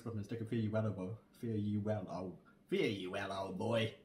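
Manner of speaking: fast recital in a lightly imitated Clay Tool Stories accent; quick Clay Tool Stories accent, slowing at the end. Shown as a demonstration. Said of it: "Clay Tool Stories accent?".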